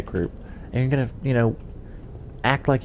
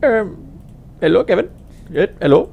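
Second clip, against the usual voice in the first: imitated telemarketer; 8 semitones higher, faster than usual. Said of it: "You know".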